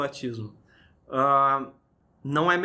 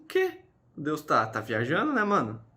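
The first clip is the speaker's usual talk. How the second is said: mock troll dad. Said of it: "Eu falei que nem o pai troll agora".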